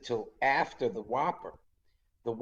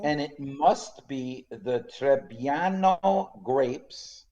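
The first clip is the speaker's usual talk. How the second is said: put-on Italian accent; much slower than usual. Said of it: "your Italian accent is excellent".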